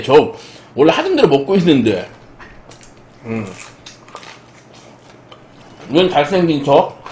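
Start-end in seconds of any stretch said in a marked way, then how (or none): 3.2-7.0 talking while chewing; muffled chewing speech; mouth full of pizza. Real, not acted. Seen 3: Bites pizza crust at 0-1.3s, then chews while speaking.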